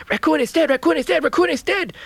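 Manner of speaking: high, loud squeaky cry; little crayfish telling the chief, high and loud. A narrator's reading. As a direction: announce it breathlessly to the chief. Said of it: "said the little crayfish".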